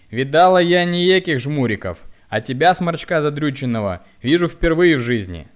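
loud high mocking yell; yelling insults. A narrator's reading. Woman loudly scorns the hunchback in the queue. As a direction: scorn him at full voice.

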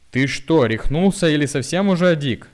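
loud, high scared and angry shout; frightened angry cry. A narrator's reading. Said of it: "испуганно и сердито закричала она". (испуганный сердитый крик)

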